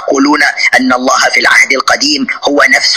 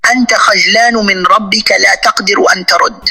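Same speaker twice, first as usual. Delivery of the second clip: higher, jeering taunt; 7 semitones higher than usual. Real, not acted. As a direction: jeer at him that he can't answer. Host taunting opponent. (سخرية واستفزاز بصوت أعلى)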